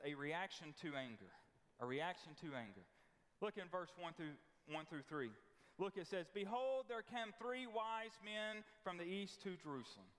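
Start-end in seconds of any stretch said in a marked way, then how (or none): 6.3-10.1 mock scripture reading. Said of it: "I'm just kidding".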